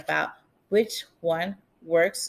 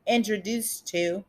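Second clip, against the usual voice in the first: wearing a retainer. Real, not acted. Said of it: "it's really hard to speak with my retainers in".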